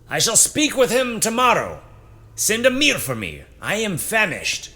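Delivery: high, lofty commander's tone; haughty commander voice. A narrator's reading. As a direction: speak down like a proud lord. Zephanon's voice in the story.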